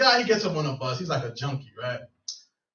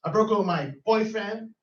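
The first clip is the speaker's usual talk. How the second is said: mock yelling; 3 semitones higher than usual. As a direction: imitate a woman yelling tearful-rant taunts. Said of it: "she's, like, still yelling at her".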